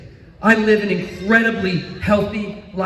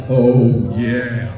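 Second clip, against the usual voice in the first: wife spotting big shells; 9 semitones lower than usual. Retold or imitated. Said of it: "She's like".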